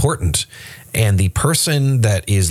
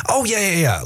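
much higher, airy brush-off; mock breezy reassurance; 10 semitones higher than usual. The driver brushing off the passenger's question, mock breezy. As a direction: wave off the worry lightly. Pastor acts out overconfident driver.

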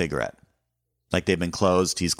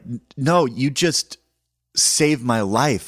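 out of breath; 7 semitones higher, 4 dB louder, slower than usual. Retold or imitated. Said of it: "now I'm just out of breath".

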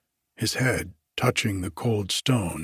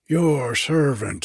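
slow, louder fawning greeting; bow and announce yourself proudly; an innkeeper eager to please; eager servant greeting; 5 semitones higher, 4 dB louder, slower than usual. Acted. Grub man bowing, first greeting.

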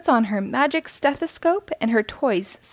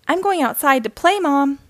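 raised voice calling from the doorway; 4 semitones higher, 5 dB louder than usual. Acted. Girl calls out to her mom before going outside, raised call. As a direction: call out loud and high to Mom. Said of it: "she calls".

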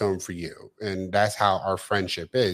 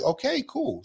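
a sharply higher, dry "okay, cool"; sarcastic okay; 12 semitones higher than usual. Retold or imitated. To a friend who never visits, sarcastic and pitched higher. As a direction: toss it off with mock approval.

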